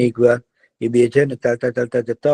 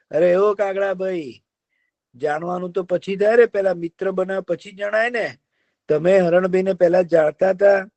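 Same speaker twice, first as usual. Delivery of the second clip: higher fox voice; sly fox; 7 semitones higher than usual. Acted. Fox tells the deer he must hunt, sly. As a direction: explain like a crafty fox.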